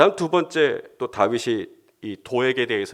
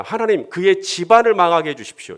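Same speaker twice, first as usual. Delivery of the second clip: higher and louder plea; angry prayer; 6 semitones higher, 6 dB louder than usual. Pretend. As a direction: beg God to ruin him. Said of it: "뭐라고 기도를 하냐?". (높고 크게 간구하는 기도)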